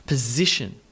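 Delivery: position punched on ZI; puh-ZI-tion; second-syllable stress. Shown as a demonstration. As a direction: reduce the start of position, stress the middle. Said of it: "second syllable".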